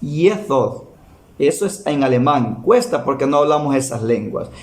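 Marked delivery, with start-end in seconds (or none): 0.0-0.8 Jesús with a lisped ending, "yeh-thoos"; Jesús said the German way; German pronunciation. Shown as a demonstration. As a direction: give Jesús its German sound. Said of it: "se pronuncia".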